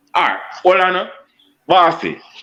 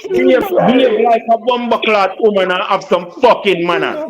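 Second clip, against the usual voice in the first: exasperated, raised-pitch telling-off; angry scolding; 4 semitones higher than usual. Real, not acted. Man scolding woman about manners, exasperated. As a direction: lecture her crossly, pitch up.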